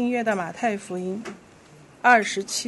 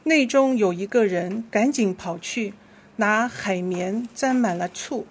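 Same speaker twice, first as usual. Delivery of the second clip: measured, clearly phrased Bible reading; scripture reading; 4 dB louder than usual. Real, not acted. Leader reads Scripture to the congregation, measured scripture reading. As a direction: lead the congregation through the verse.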